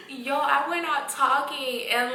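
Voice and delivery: bursting into a high laugh while telling it. Real, not acted. Patient telling friends about anesthesia, laughing. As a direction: laugh out the words, slowed down. Laughing at her own story.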